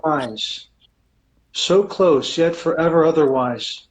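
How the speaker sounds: slow, measured poetry recital; poem reading. Acted. Poet reading his new poem aloud to the audience, slow and measured. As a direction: let each line land slowly, with feeling.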